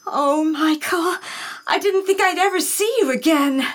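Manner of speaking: high, overcome with feeling; tearfully relieved; emotional relief. Acted. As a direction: let relief pour out in the embrace. Embracing lost fiancé.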